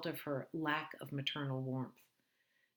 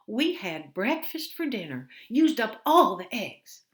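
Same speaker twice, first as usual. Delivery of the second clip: put-on louder, higher, slow elderly voice; confused old mother; 7 semitones higher, 13 dB louder than usual. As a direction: play the muddled mother, slow.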